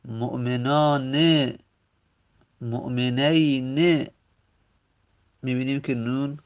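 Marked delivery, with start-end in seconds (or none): 0.0-1.2 slow مؤمنان, said mu'menāne; final kasra. Shown as a demonstration. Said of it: "در مثنا عکسش نون کسره داره". 2.6-4.1 slow مؤمنین, said mu'meneyne; مؤمنین with "ey", ending in short e; final kasra. Shown as a demonstration. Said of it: "در آخر کسره داره".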